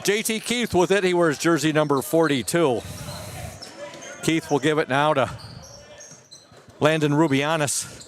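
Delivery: winded from climbing stairs; out of breath. Real, not acted. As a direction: talk while catching your breath. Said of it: "if I'm a little out of breath".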